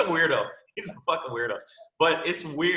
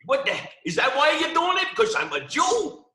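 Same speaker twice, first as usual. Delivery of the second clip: put-on Jewish accent; 11 semitones higher than usual. Joker challenging the cop who stopped him, exaggerated Jewish accent. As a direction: whine the protest in a super-exaggerated Jewish accent. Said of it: "That's a hell of a Jewish accent".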